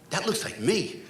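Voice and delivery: soft mock-tearful reply; hushed, whimpered admission; sniffling. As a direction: imitate a sniffling man, quiet and meek. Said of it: "he's like, he's sniffling".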